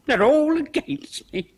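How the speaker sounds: half-laughing, half-crying protest; tearful outburst. Acted. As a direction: near tears with a nervous laugh, everyone against her. Cook breaks down, accused over death.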